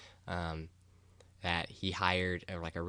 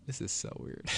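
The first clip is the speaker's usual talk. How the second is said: soft whispered aside; 4 semitones higher, 4 dB quieter than usual. Real, not acted. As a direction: murmur it to yourself. Aside about her own rambling.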